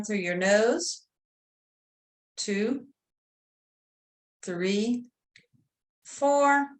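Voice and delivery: measured count with long pauses; guided breathing. Real, not acted. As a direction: draw out the breathing cues, hold each number. Leads a breathing exercise.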